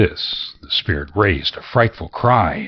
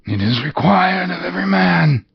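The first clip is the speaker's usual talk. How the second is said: high, crying spectral voice; mournful ghost; wailing ghost; 12 semitones higher, 3 dB louder than usual. Acted. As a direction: moan it like a lost soul.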